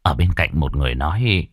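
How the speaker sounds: usual speaking voice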